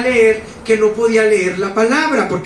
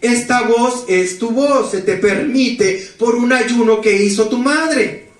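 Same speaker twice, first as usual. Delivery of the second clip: slow, solemn, lightly raised angel voice; 2 semitones higher, slower than usual. Retold or imitated. Angel voice speaking to the troubled young man, slow and solemn. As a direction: call him by name slowly, like a messenger from above. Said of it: "y me dice esa voz".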